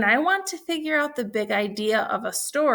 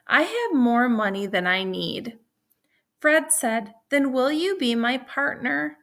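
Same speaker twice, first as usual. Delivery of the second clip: put-on reading to children. A narrator's reading. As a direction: lively, clear read-aloud for second graders. Teacher reads story to class.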